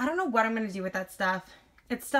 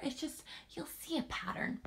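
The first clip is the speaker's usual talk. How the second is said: whispered through giggles; breathy giggling aside, barely voiced; laughing whisper; 7 semitones higher, 10 dB quieter than usual. Real, not acted. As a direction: let the laugh swallow the words. Giggling aside about her habit.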